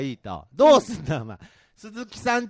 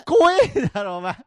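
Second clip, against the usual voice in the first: raised, higher indignant tsukkomi; loud comic retort; 4 semitones higher, 3 dB louder than usual. Acted. Comedian scolding partner over pedal-less car, loud and higher. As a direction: hammer the objection home loudly.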